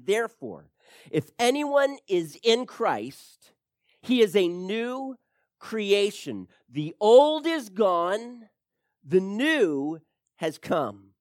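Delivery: slow, solemn reading of the verse; preacher quoting Corinthians, slow and solemn; scripture reading. Acted. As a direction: read the verse with weight, slowly. Reads scripture slowly.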